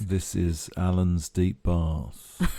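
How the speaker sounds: slow, low and relaxed; sultry radio DJ. Acted. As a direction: lounge DJ purring an intro. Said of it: "You're very relaxed".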